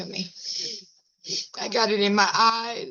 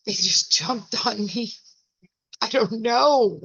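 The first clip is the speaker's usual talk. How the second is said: same line as grandma; 4 semitones higher, 6 dB louder than usual. Shown as a demonstration. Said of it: "This is how I feel".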